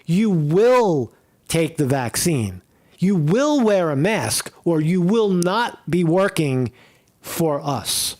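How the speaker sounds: slow, stern order; stern mandate. Retold or imitated. Mocking the officials who gave people an ultimatum, stern and slow. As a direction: lay down the rule like an authority. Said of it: "That's what they told people".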